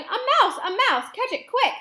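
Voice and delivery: very high, loud cries of alarm; frantic high-pitched yells; urgent shouting. Acted. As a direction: shout to set everyone chasing. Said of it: "they were shouting".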